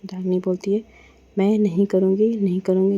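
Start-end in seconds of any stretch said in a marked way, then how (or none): 1.4-3.0 louder, defiant no; stubborn refusal. Acted. Woman refuses breakfast her partner insists on, loud and defiant. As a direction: dig in and refuse hard.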